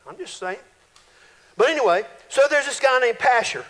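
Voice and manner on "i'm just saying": quiet aside. Shown as a demonstration.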